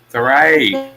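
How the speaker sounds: pat him on the head with words; mock reassuring. Friend teasing Phil by comforting him, mock soothing.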